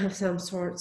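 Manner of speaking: breathless from a cold; short of breath. Real, not acted. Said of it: "I'm really short of breath with my cold".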